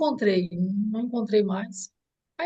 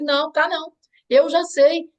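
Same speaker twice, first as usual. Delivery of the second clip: raised, emphatic retold contradiction; firm insistence; 5 semitones higher, 4 dB louder than usual. Mother re-enacting contradicting her daughter, firmly insistent. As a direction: cut in, louder and higher, sure of it.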